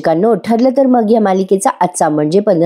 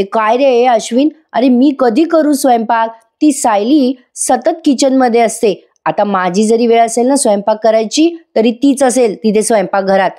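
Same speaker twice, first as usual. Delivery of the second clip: put-on a lightly raised, complaining young wife; whining wife; 3 semitones higher than usual. Priya blames Sayli to her husband Ashwin: lightly voiced whining wife. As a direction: whine a little higher about the kitchen.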